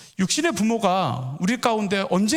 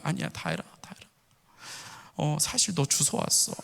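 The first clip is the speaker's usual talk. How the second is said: mock comforting; 3 semitones lower, 7 dB quieter than usual. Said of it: "와이프가 막내를 이렇게 안으면서 이렇게 얘기하는 거야".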